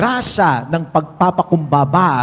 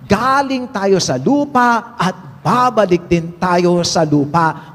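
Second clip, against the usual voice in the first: quoted lyric; slower than usual. Retold or imitated. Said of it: "Sabi nga ng isang mang-aawit".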